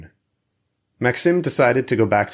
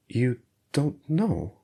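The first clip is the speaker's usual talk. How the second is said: soft reassuring; 5 semitones higher, 4 dB quieter, slower than usual. A narrator's reading. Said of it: "His voice was soft and reassuring".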